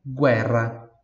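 guerra as "GWEH-rra"; Italian pronunciation. Shown as a demonstration. Teacher has students repeat, guerra with Italian U sounded. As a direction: model guerra with "gw" and a trilled R. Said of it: "Em italiano".

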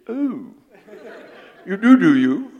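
high, loud nervous squeak through laughter; startled frog. Acted. Preacher delivering the frog's punchline to the crocodile in a high, laughing squeak. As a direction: squeak out a frightened, laughing backpedal. Frog suddenly meets a croc.

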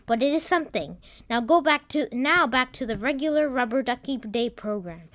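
a hint of bulletin delivery; news anchor. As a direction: read it as a news report. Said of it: "there was a human in a chair".

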